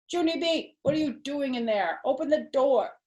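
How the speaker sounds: a hint of a stern mother through the door; lightly voiced mother; mother calling. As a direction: call through the door, a little firm. Mother knocking at bathroom door.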